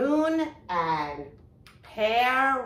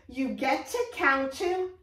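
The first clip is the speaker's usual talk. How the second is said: bunny puppet; 7 semitones higher than usual. Acted. Teacher voicing Bunny puppet.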